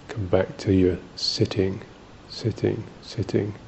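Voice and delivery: soft, hushed repetition; softly murmured meditation cue; gentle self-reminder. Shown as a demonstration. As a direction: repeat it quietly, like coaxing the mind back. Models gently returning the drifting mind.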